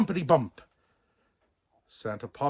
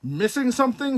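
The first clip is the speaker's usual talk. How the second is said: teasing question; 11 semitones higher, 5 dB louder than usual. Acted. Buck surprises Santa.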